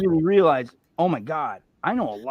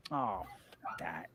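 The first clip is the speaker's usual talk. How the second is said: lower, softer, slow and fed up; dismissive groan; 9 semitones lower, 17 dB quieter, slower than usual. Retold or imitated. Moviegoer reacting to another confusing ending, slow and dismissive. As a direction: brush it off like a tired moviegoer. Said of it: "I have the".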